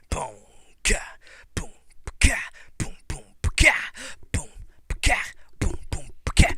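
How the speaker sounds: boom-ka vocal percussion; mouthed drum beat. Acted. Drumming the vignette's theme by mouth, vocal percussion. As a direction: punch out the "ka" like a snare.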